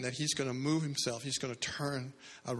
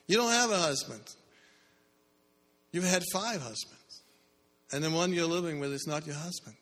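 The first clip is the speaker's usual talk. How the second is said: higher and louder, pressing each fact home; emphatic reveal; 4 semitones higher, 3 dB louder than usual. Retold or imitated. Jesus telling the woman her past, emphatic. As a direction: lay her secrets out, forceful.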